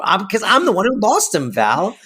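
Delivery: high start falling onto the name; touchy self-justification, acted out; mock defensive. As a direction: imitate an exasperated, defensive retort. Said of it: "She's so defensive".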